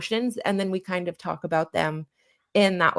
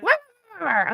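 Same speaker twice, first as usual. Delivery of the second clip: dog impression; 14 semitones higher, much faster than usual. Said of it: "that's my impression of a dog".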